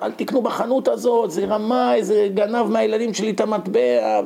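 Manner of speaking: mild mock street yell. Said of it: "התחיל לצרוח ברחובות".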